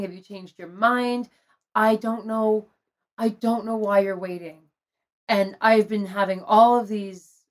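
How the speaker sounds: understated sadness, transparent and sincere; sad, not angry. Retold or imitated. Retelling her plea to her partner to propose, mildly sad. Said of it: "like, not angry, just sad".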